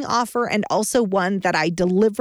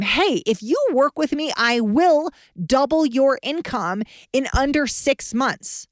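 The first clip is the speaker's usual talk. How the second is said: firm, confident pitch, higher and slower; with conviction; 5 semitones higher, slower than usual. Shown as a demonstration. Coach demoing a confident pitch to a prospect, full conviction. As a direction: say it like you fully believe it. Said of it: "if you say it with conviction".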